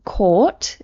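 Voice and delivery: COURT said with a long British vowel; British pronunciation. Shown as a demonstration. Teacher showing students British English, long-vowelled COURT. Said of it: "in British English".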